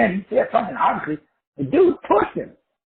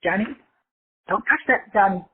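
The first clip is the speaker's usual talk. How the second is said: mild mock permissive parent; 2 semitones higher than usual. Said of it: "The parent says".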